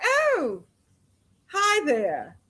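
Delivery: imitating a cool, let-down hello; underwhelmed greeting. Host imitating Ryan's cold reaction to Cuba, underwhelmed. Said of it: "he was just like".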